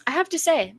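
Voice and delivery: high-pitched amused retort; mock amusement. Retelling his amused reply to her, mock amusement. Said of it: "His face turns to amusement and he says".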